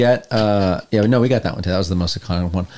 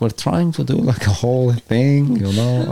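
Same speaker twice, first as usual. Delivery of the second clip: German radio caller; 4 semitones higher than usual. Acted. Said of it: "I can speak in normal German".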